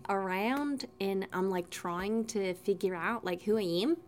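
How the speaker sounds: low-pitched New Zealand accent attempt. Showing the only accent they can do, New Zealand. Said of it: "I can only do, like, New Zealand".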